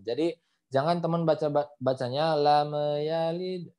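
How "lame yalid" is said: "lam" released as "lame" with an extra vowel before "yalid"; bounced M. Shown as a demonstration. Teacher shows what to avoid, bounced M in "lam". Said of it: "mim sukun tidak boleh dipantulkan".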